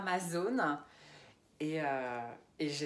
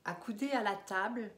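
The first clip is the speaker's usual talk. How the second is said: poetry recital; 3 semitones higher than usual. Acted. Begins reading third poem.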